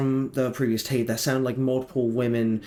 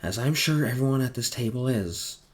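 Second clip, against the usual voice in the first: monotone voice. Acted. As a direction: keep every line level and cold. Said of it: "the monotone voice says".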